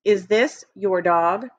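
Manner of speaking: "Is this your dog?" at a slow read-along pace; slow choral reading. Shown as a demonstration. Teacher leading class in reading together, slowly. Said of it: "Everybody read that with me".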